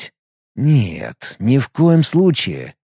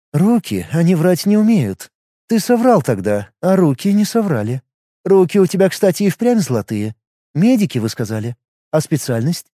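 lightly raised woman's voice, wry and probing; a hint of a knowing healer teasing him; Liga's voice; 7 semitones higher than usual. Liga gently pressing the medic about his lie, lightly raised.

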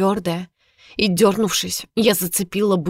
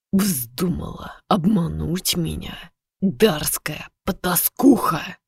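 snarling villain; slower than usual. Acted. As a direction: spit the insult slowly. Enraged king snarling insult.

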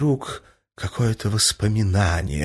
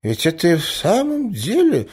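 delighted; 9 semitones higher, 4 dB louder than usual. A narrator's reading. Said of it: "закричал князь в восторге".

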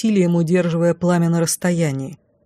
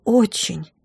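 put-on higher, timidly smiling child; shy smile; 4 semitones higher than usual. A narrator's reading. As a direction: answer with a small, hesitant smile. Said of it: "мальчик несмело улыбнулся в ответ".

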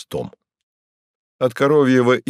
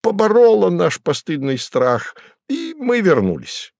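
much higher, reedy storyteller voice; Koroviev's voice; 8 semitones higher than usual. A narrator's reading. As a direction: rattle the tale off in a high voice. Koroviev continues.

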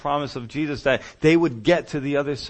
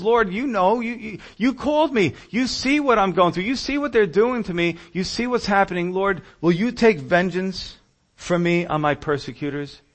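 higher, urgent appeal to God; pleading prayer; 4 semitones higher than usual. Retold or imitated. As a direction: plead your case as Jeremiah praying. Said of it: "he starts to pray".

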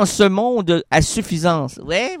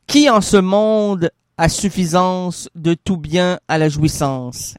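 slow recital. Shown as a demonstration. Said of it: "nous allons répéter".

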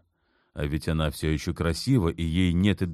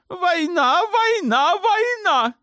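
much higher, louder, manic chant; mad shout; 6 dB louder, slower than usual. A narrator's reading. Sultan screaming for war before his mother. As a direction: scream it like a madman. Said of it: "как безумный закричал Ибрагим".

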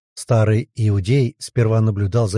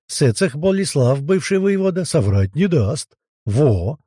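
eager, higher, talking in a rush; lively salesman pitch; 5 semitones higher than usual. Acted. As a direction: sell it like a travelling salesman. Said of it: "Убедительно и живо, как коми-вояжёр". (убедительно и живо, как коммивояжёр)

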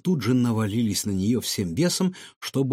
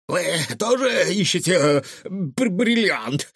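higher, halting suspicious question; distrustful; 6 semitones higher than usual. A narrator's reading. Shivering cook questions the searchers, distrustful. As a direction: stammer it out with a hint of suspicion. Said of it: "недоверчиво прищурился он".

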